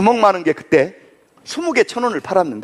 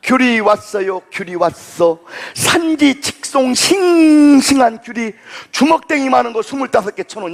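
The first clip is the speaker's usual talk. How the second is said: mock market-truck loudspeaker call; imitating a recorded fruit-truck ad; loudspeaker hawker; 3 semitones higher, slower than usual.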